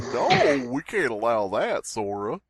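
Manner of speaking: a hint of a pretend executive refusing; Sora as CEO. Pretend Twitter CEO vetoing a post, lightly acted. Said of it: "picturing the C E O of Twitter as just Sora".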